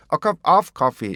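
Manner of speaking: "a cup of coffee" with "of" swollen into a long 어; wrong pronunciation demo. Shown as a demonstration. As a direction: lean slow and loud on "of" as the mistake. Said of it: "이렇게 발음하시면 안 되고요".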